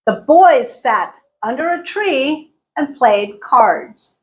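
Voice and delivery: slow, BOYS, SAT, TREE, PLAYED, CARDS stressed; emphasized content words. Shown as a demonstration. Teacher modelling sentence two, content words emphasized. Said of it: "I emphasize boys".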